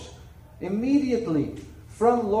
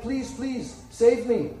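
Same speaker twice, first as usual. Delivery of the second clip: begging; slower than usual. Acted. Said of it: "And he begged".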